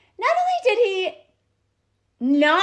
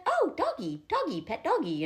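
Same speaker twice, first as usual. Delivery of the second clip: put-on softer, childlike cooing at a dog; a lightly voiced toddler, hushed and delighted; little boy voice; 6 dB quieter than usual. The calmed boy reaching for the dog, soft childlike coo. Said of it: "He's like".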